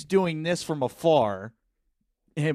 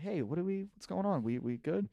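soft in her ear; 6 semitones higher, 7 dB quieter than usual. Retold or imitated. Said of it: "I got in her ear".

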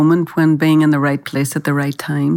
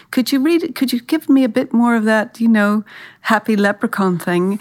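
imitating the agent; 4 semitones higher than usual. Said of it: "the agent kept saying".

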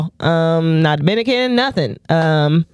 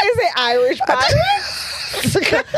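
Irish pirate voice; 9 semitones higher, slower than usual. Retold or imitated. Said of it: "sound like a pirate".

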